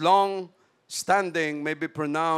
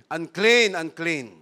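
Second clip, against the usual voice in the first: leper's cry; 5 dB louder, slower than usual. Acted. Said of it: "And shall cry".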